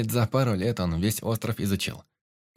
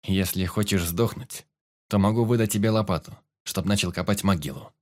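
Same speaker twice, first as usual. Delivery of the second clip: cold tone. Acted. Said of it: "холодным тоном произнёс звездочёт".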